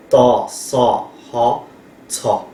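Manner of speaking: TA, SA, HA spaced, then aspirated TSA; teacher's slow build-up to TSA with H; three-sound blend. Shown as a demonstration. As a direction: sound out each syllable, then fuse into TSA. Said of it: "avec le T X H".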